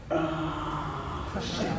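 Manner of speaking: muttered oh shit. Retold or imitated. Realizing guy is angry at him.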